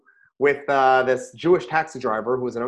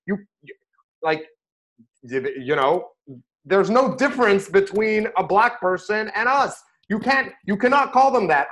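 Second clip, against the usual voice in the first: retold scolding; 5 semitones higher, 3 dB louder than usual. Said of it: "So I tell him off".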